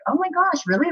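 high, thrilled disbelief; surprised delight. Retold or imitated. Actress retelling friend's cameo offer, high surprised delight. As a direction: react like you can't believe the offer. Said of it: "I was just like".

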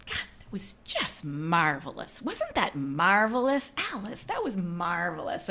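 dad's Midwestern drawn-out praise; Midwestern accent. Retold or imitated. Daughter imitates dad's highest flattery, slight Midwestern accent. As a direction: savour marvelous in a slow Midwestern accent. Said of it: "a bit of a Midwestern accent".

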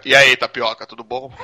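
brave nurse voice. Pretend. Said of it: "Agora com voz de enfermeira".

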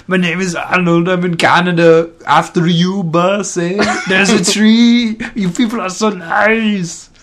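high, loud goofy Canadian; hammed-up Canadian, overly polite; mock Canadian accent. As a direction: strain the voice into a silly Canadian. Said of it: "I'm ruining my voice".

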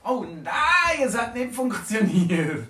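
high, loud, laughing through it; giggling that the trick failed; laughing dismay. Acted. Trick fails, teller laughs. (lachend, hoch und laut)

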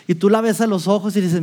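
ordinary delivery

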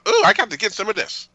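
high mock-lustful voice; hammed-up swooning over a man; smitten woman. Co-host imitating the lieutenant seeing Khan, mock smitten. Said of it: "she's like".

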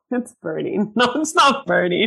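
giggling through the words; laughing while you talk. Real, not acted. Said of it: "Stop making me laugh".

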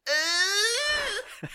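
sudden high squeal of fright; a jolt of panic as the toy pops; terrified grunt. Retold or imitated. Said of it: "he's just like".

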